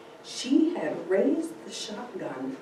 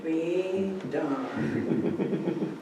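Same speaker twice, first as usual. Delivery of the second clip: slow amazed; much slower than usual. Acted. Father realizes wife fired shotgun.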